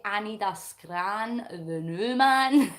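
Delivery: slow, broad Scottish accent; drawn-out Scottish phrasing; Scottish slang demo. Shown as a demonstration. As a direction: show how a Scot would ask for food, slowly. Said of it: "you would say".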